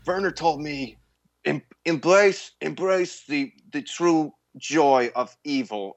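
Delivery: lightly voiced Nicolas Cage, slow and intense; a hint of Cage, drawn out on embrace; Nicolas Cage impression. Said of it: "you just did two impressions right now".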